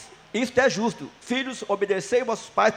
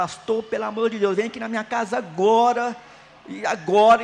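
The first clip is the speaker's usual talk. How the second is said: plain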